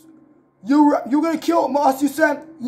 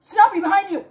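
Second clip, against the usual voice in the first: higher-pitched pretend alarm; play-acted watch-out cry; urgent warning; 4 semitones higher than usual. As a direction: call out a warning to your partner. Warning a partner in pretend fight.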